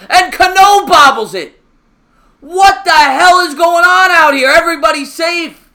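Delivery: loud, high, disbelieving play-by-play; exasperated excitement. Real, not acted. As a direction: shout it out as the play falls apart. Fielders keep bobbling the ball.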